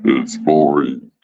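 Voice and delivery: low, slow mock-bored groan of "boring". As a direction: drag out "It's boring" deep and slow, like dying of boredom.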